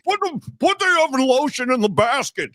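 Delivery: high-pitched mock movie-villain yell; hammed-up yell of a killer breaking down; imitated yelling breakdown. Host quoting the movie villain's breakdown, mock yelling. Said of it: "he's yelling".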